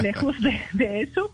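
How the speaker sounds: Swedish accent Spanish. Real, not acted. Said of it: "perdonen mi español".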